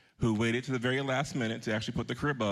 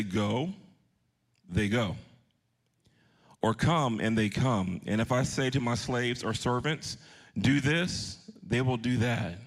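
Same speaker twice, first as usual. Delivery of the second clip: preacher reading scripture aloud, firm. Acted. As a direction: proclaim the officer's plea with conviction. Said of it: "I'll read that".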